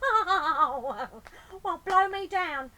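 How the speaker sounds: high, loud, laughing through it; tickled with surprise; laughing amazement. Acted.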